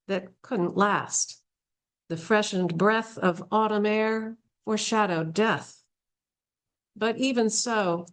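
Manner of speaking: unhurried recital of rhymed couplets; poetry reading. Acted. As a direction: give each short phrase its own space. Reads a poem aloud.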